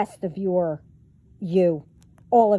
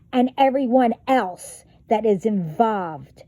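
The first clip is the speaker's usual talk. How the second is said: raised, furious rant; angry outburst. Real, not acted. Yelling at the hackers who hacked her, furious.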